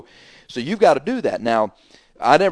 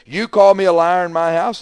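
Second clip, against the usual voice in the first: retold indignant shout, higher and louder; angry outburst; 7 semitones higher, 8 dB louder than usual. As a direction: hurl it back at him, outraged. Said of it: "he stood up in a huff".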